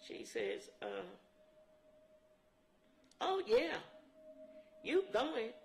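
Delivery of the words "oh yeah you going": mock insistent shout. Boss lady insisting on taking her.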